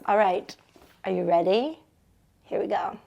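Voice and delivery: breathy whispered start. Real, not acted. Host whispers to listeners before reading. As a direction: hush before the story begins. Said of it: "whispered intro before reading".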